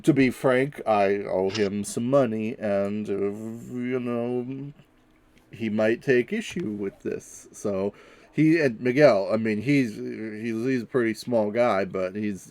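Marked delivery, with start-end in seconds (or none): 0.0-7.5 speaking up. Acted. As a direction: raise the voice so Miguel hears. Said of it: "speaking up".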